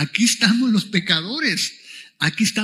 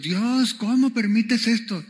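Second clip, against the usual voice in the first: higher, protesting cry to God; mock lament; 4 semitones higher, slower than usual. Preacher voicing people who blame God, mock lamenting. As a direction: act out a mild, plaintive complaint.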